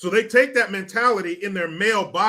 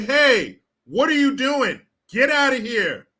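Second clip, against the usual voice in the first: imagined adult shout; 4 semitones higher than usual. Retold or imitated. Imagined adult calling kids off.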